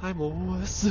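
small, high, soft whine; sheepish mock whimper. Player owns up to viewers about being a wuss, sheepish whimper. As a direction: confess in a tiny, high, soft voice.

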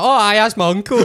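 high, loud, laughing exclamation; hammed-up cheery admission; Paddy the Badger. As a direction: blurt it out brightly, breaking into laughter. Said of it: "And Paddy was like".

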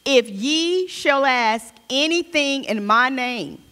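slow, deliberate Bible reading; measured reading from the pulpit; scripture reading. Acted. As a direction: read the verse out solemnly, spacing the phrases. Reads scripture aloud.

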